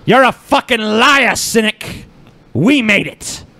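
high mock-accusing yell; hammed-up shrill accusation; shrill overlapping reality fight. Mock fight over remix credit.

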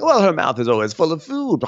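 high-pitched mimicking jab; mock Karen. Host mimicking Karen's dig at Giselle, mock catty. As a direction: exaggerate a gossipy put-down.

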